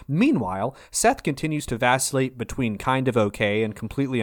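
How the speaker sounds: lively show-intro read; recap announcer. Acted. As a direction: announce it like a TV promo. Reads episode recap intro.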